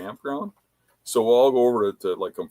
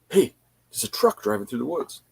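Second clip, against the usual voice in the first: higher-pitched imitation of a lookout; narrating play-by-play; 8 semitones higher than usual. Hunter to camp about a passing truck, imitated narrating. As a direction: imitate a buddy calling out what he sees. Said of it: "like, narrating it".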